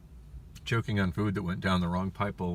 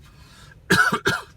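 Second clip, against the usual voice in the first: sharp choking coughs; hard coughing; 12 dB louder than usual. Real, not acted. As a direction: cough hard, like food went down wrong. Choking on a taquito.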